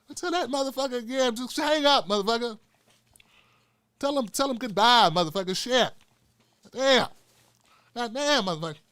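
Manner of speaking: high, rowdy cussing; Richard Pryor impression. Richard Pryor telling Tim to hang up. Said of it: "I'm here with Richard".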